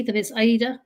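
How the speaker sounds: "Aida" said like "eat a" with a D, AY-da; "Aida" as in "ate a", with a D; correct name pronunciation. Shown as a demonstration. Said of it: "trade the T for a D".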